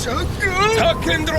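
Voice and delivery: call out. Acted. Calling out while falling through portal.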